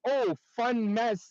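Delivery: slow, drawn-out joking tone; a slow playful quip about a messy paint tray. Retold or imitated. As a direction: tease lightly, stretching it out. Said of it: "as a joke".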